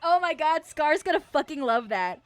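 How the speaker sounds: high, loud words through laughter; real laughter. Real, not acted. Streamer sees meme a friend will love, helpless laughter. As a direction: gasp it out while cracking up.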